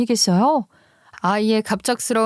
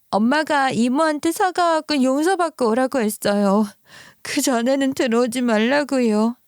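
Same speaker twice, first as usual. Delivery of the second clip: put-on a child pleading through tears, higher; crying child; 3 semitones higher than usual. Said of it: "아이가 갑자기 펑펑 울더라고요".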